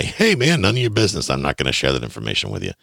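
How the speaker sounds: mock a seller shutting the question down; dismissive seller. Seller refusing the buyer's prying question, dismissive.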